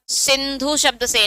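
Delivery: सिंधु said slowly and deliberately as the right word; slow down and lean on सिंधु; stress on सिंधु. Shown as a demonstration. Teacher correcting an exam trap, slow stress on सिंधु.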